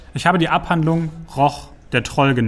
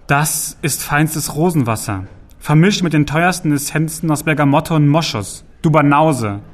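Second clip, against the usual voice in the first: calling back; 2 semitones higher, 3 dB louder than usual. Acted. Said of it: "rief Sagan zurück".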